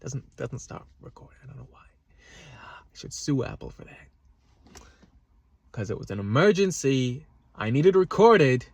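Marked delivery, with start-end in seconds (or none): 1.8-4.8 breathy muttered complaint; whispered aside. Real, not acted. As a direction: whisper it under your breath.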